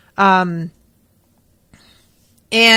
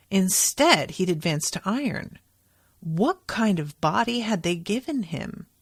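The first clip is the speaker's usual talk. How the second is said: steady, even read-aloud narration; lightly performed audiobook read; book reading. Acted. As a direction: read the passage like a novel. Reads passage from the book.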